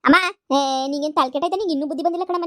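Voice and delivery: loud, sharp call to her mother. Acted. Daughter cuts in on her mother with a loud call. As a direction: snap her name out to stop her.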